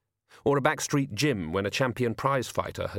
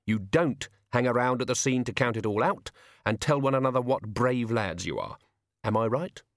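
instructing the crew with measured authority; lightly voiced boss laying down the rules; seasoned gang boss; 3 semitones higher than usual. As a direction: lay out the job like an old hand. Character briefing a gang.

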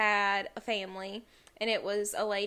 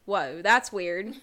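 slow, drawn out with a laugh; laughing amazement; amused whoa; 5 dB louder, much slower than usual. Retold or imitated. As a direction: marvel at the coincidence. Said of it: "And I was like".

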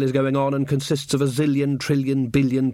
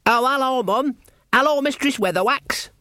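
much higher, earnest lad's voice; eager young guard; 12 semitones higher than usual. Acted. Young guard greets his mum below, high and eager. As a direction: play the keen, simple boy soldier.

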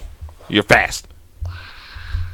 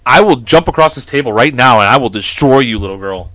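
playful louder mock menace; mock threat; 7 dB louder than usual. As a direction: threaten her in pretend menace.

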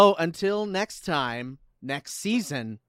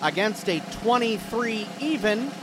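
announcer voice; 2 semitones higher than usual. Acted. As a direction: build suspense like a host. Announcing season winner.

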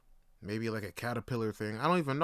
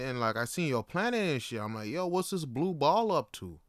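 a laid-back space alien, lightly raised and chatty; casual alien dude; 4 semitones higher than usual. Retold or imitated. Alien greeting Earth people in a casual dude voice. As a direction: play a chill alien dropping by to say hi. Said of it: "the alien's talking like that".

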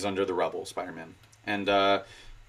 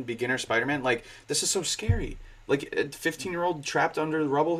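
usual speaking voice

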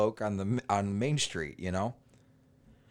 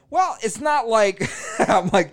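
real laughter breaking through, higher and louder; laughing; 11 semitones higher, 9 dB louder, slower than usual. Real, not acted. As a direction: talk through your own laugh. Laughs while answering partner.

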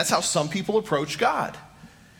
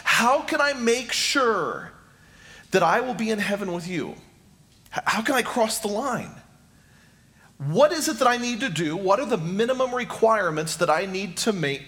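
earnest seeker; 2 semitones higher than usual. Acted. Preacher voicing the seeker's pleading question.

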